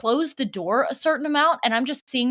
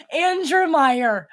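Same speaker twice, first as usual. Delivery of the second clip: drawn-out name; 5 semitones higher, 4 dB louder, much slower than usual. Real, not acted. Savouring the remembered name.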